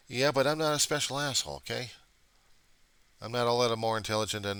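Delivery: high, loud exasperated protest; exasperated outburst. Real, not acted. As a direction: burst out in frustration. Exasperated retort.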